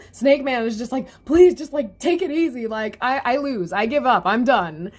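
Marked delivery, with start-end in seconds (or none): 1.2-4.9 high, loud begging to stop; mock-pleading villain giving up; pleading surrender. Snake Man gives up.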